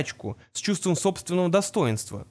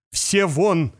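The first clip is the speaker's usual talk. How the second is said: barked order; 3 dB louder than usual. Acted. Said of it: "рявкнул он".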